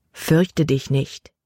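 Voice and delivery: slow, calm and reassuring; calm reassurance. Acted. Remembered voice of God comforting Libby: slow calm. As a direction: speak it slow like a promise.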